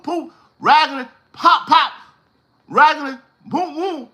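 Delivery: high-pitched sputtering car noises; imitated car sputter. Telling men to get their own ride, imitated car sputter. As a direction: pop out the noises of a raggedy car.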